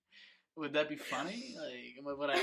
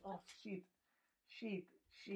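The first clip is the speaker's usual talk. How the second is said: higher, hushed mock Saudi accent; softly muttered curse in an imitated Saudi accent; 5 semitones higher, 11 dB quieter than usual. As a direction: put on a Saudi guy's accent, cursing softly. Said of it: "one of the Saudi guys".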